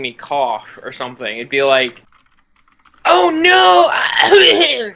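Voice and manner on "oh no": high shouted oh no; high strained shout; whispery yell. Retold or imitated. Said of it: "whispery tone, but yelling".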